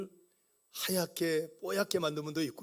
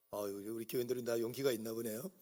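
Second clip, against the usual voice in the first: teasing aside; 8 semitones lower, 9 dB quieter than usual. Real, not acted. Pastor jokes about congregation's silence.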